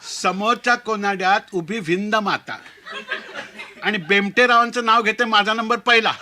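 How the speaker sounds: a hint of a shy bride's sing-song recital, rising at the end; bride reciting a verse. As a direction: recite the wedding couplet proudly. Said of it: "उखाणा घ्यायला सुरुवात केली".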